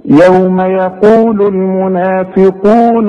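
slow, steady Quran recitation; tajweed recitation. Shown as a demonstration. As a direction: recite the verse calmly with even madd. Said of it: "طب لو نقرأ الآية دي". (تلاوة مرتلة هادئة)

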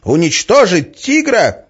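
loud, high, urgent pleading; exclaiming. A narrator's reading. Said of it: "воскликнула Арина". (взволнованный крик)

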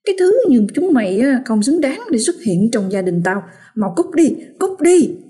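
wife cursing the blood clot through gritted teeth. Acted. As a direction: spit the curse through clenched teeth. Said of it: "mụ vừa nghiến răng".

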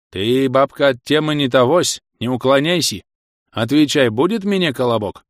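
put-on lisping old grumbler, a touch whiny; toothless old man. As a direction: whine for bread with no teeth. (шамкающий старик)

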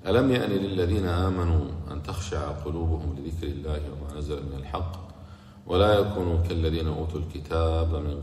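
measured chanted tajweed recitation; Quran recitation. Acted. Quran recitation opening the lesson. (تلاوة قرآنية مجودة)

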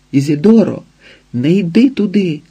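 desperate call into the storm; desperate shout. A narrator's reading. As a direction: cry out to stop her. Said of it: "закричав відчайдушно".

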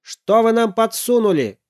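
loud, high, angry shout. Acted. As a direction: yell it accusingly. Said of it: "закричал папа".

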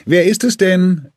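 wife calls down the staircase; calling down the stairs. A narrator's reading. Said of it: "rief sie von oben die Treppe herab".

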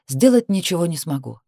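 plain reading voice

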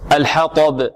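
الحطب with light ح and full, thick ط; heavy ta demo. Shown as a demonstration. Teacher contrasts the two letters, heavy ta demo. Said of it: "والطاء".

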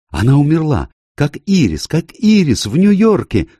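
high, loud panicked cry; terrified scream. A narrator's reading. Lola finding the dead woman, a high loud horrified scream. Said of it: "закричала Лола".

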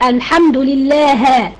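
لله drawn out slowly as lillaha with a final a; slow mistaken recitation of لله ending in a; wrong fatha ending. Shown as a demonstration. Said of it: "المفروض لله". (الحمد لله بفتح الهاء خطأً ببطء)

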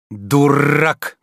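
a hard, loud "Дурак!" flung at the servant; firm rebuke. A narrator's reading. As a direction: bite the word off like a scolding master. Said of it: "крепко произнёс Обломов". (крепко, резко)

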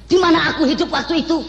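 mock Independence Day speech; speech-day orator. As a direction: orate like a rally speaker. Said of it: "Kayak orang pidato tujuh belasan".

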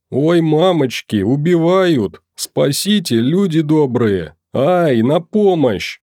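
high, panicky cry of fright; wailing alarm. A narrator's reading. Caretaker wailing in mock fright at Maxim's smile. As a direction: shriek it like an old woman who has seen a maniac. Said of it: "заголосила дворничиха".

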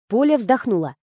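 ordinary delivery, nothing marked

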